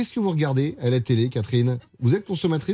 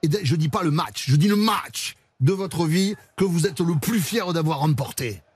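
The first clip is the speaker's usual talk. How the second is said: put-on southwest French accent. Radio host quizzing the actor in a mock south-west French accent. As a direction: play a rugby-club interviewer from the south-west, French accent. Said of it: "Je vais le faire avec l'accent".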